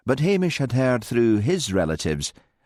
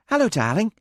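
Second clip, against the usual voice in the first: flirty; 12 semitones higher, faster than usual. A narrator's reading. Flirty greeting to Jeremy.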